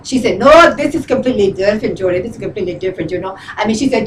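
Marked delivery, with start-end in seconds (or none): 0.4-3.4 lightly imitated friend, lower and dropping softer; friend's voice. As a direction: mimic your friend dismissing the objection. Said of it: "she talks like this".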